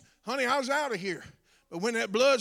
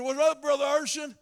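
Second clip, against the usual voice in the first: casual greeting; 6 semitones higher, 7 dB louder than usual. Retold or imitated. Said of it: "I said".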